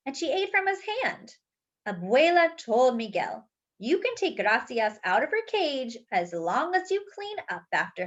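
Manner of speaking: lively, expressive read-aloud storytime voice; reading to children. A narrator's reading. Teacher reading a picture book aloud to the class, lively storytelling. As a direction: bring the picture book alive for the kids.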